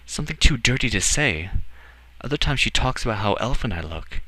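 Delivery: put-on high boy's voice, hurtful gossip reluctantly told; young Edward, troubled.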